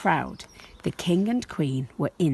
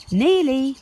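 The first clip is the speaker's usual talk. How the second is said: parents' gentle answer; 7 semitones higher, 5 dB louder than usual. Acted.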